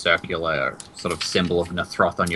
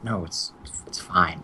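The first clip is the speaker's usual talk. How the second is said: hushed urgent whisper; 7 dB quieter than usual. Acted. NPCs hushing each other, urgent whisper. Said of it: "got whispered".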